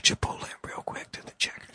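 urgent hushed whisper. Acted. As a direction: whisper it, pressing hard. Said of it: "Why are you whispering?".

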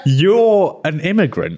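laughing tease. Real, not acted. Teasing friend, laughing.

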